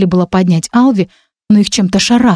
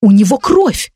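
barked retort; 3 semitones higher, slower than usual. Acted. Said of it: "рявкнула я".

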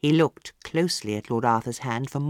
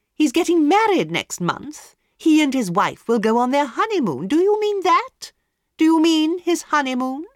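much higher, louder mocking questions; scornful hostess; 13 semitones higher, 6 dB louder than usual. A narrator's reading. Hostess mocking the palmist's honeymoon journey, high and loud. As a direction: ridicule the vague prophecy. Lady Windermere scoffs.

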